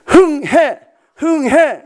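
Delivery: high, loud mock-mother coaxing; mother's nose-blowing call. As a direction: imitate a mom urging a child to blow. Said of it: "엄마들이 항상 그렇게 했어요". (코 풀라는 엄마 흉내, 높고 크게)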